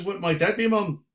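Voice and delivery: lilting Irish brogue. Retold or imitated. Singer asking the little lady her county, Irish brogue. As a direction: ask politely in an Irish lilt.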